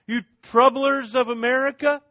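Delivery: high, loud mocking accusation; accusing crowd. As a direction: point the finger at the church, taunting. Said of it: "they're gonna say".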